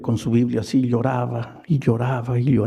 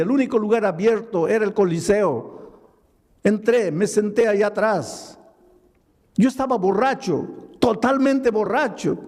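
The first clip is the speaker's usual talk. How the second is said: raised, intense preacher's voice; preaching at full force; 7 semitones higher than usual. Acted. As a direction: preach it high and urgent. (predicando con fuerza, voz alta e intensa)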